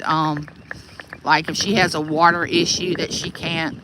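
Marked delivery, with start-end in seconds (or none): 1.2-3.8 talking while bouncing over bumps; on a bumpy road. Real, not acted. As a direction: voice jolted by a bumpy ride. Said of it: "this road is so bumpy".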